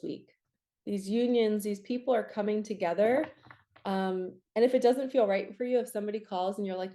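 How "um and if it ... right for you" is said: ordinary delivery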